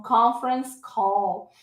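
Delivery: "call" drawn out, L sounded; corrected pronunciation. Shown as a demonstration. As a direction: restate "conference call" carefully as the model. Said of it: "se a gente pronuncia errado".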